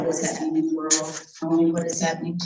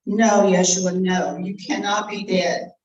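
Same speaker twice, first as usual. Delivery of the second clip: louder despairing cry of no; anguished cry; 3 dB louder than usual. Acted. Disciple seeing Yeshua die, crying out in anguish. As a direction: cry out as he dies.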